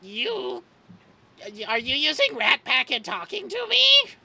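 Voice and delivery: busy, distracted voice. GM voices Shit on call.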